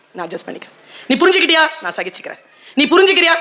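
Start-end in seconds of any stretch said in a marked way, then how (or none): 0.1-0.7 meek wife reply. Retold or imitated. Wife's weary reply voiced. 1.8-2.4 meek wife reply. Retold or imitated. Wife's weary reply voiced.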